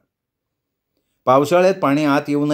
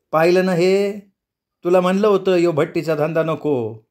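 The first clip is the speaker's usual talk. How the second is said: put-on lightly raised, scolding old mother; a hint of an old mother saying I told you so; Amma's scolding; 5 semitones higher than usual. Old mother reminds her son, lightly raised scolding. Amma scolds Benva about the trade.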